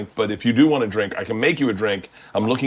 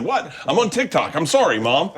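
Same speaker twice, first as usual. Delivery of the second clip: lightly voiced daughter, pitched up; higher, put-on defensive apology; mock protesting kid; 5 semitones higher than usual. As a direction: imitate a kid caught out by mom. Voices daughter caught on phone.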